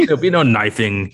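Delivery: laughing mock rule.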